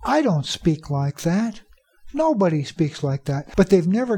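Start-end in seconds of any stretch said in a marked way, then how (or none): 0.0-1.6 mock disbelief, What shooting up high; incredulous teacher. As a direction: act out a teacher's indignant surprise. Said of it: "many untrained teachers will say".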